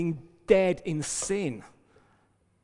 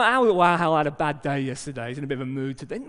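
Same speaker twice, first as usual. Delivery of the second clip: flippant mock; 3 semitones lower, 5 dB louder, much faster than usual. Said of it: "It's not like, so".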